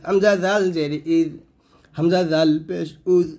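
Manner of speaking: "জাল", "ইজ", "উজ" light, tongue touching the upper teeth; thin dhal. Shown as a demonstration. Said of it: "পাতলা হবে, জিব্বাটা উপর দাঁতে লাগাবেন".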